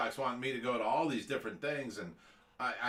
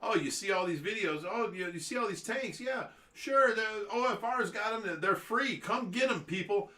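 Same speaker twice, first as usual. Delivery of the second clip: mocking Reaper; 6 semitones higher than usual. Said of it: "and is like".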